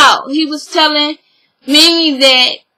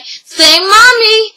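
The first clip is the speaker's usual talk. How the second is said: put-on baby talk; 6 semitones higher, much slower than usual. Nanny coaxing baby to say Mommy.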